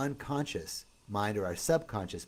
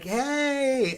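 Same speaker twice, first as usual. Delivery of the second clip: retold yell; 13 semitones higher, 7 dB louder than usual. Pounding on window, friend can't hear.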